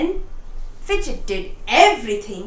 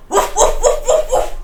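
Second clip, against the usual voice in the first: high, louder puppy woofs; playful barking; 10 semitones higher, 5 dB louder than usual. A narrator's reading. Puppy barking at the farm cat, high and playful. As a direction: bark like an excited puppy. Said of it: "barked Fidget".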